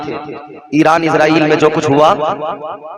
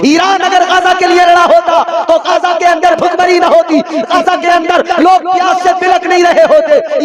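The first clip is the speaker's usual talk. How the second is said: high, ringing declamation; impassioned sermon cry, much higher than normal talk; full-force preaching; 12 semitones higher than usual. Acted. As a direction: drive the argument home at a sustained high pitch.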